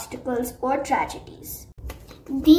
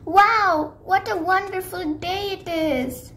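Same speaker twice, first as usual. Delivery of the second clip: cheerful Sunny; 4 semitones higher than usual. Acted.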